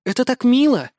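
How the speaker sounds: high, sweet cooing voice. A narrator's reading. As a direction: coo it like a flirt. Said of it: "проворковала Вяземская".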